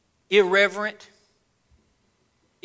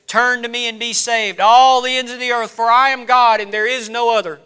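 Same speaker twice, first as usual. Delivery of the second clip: firm, emphatic Bible reading; forceful pulpit recitation; scripture proclamation; 7 semitones higher, 10 dB louder than usual. Real, not acted. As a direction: proclaim the verse with authority. Reads scripture aloud forcefully.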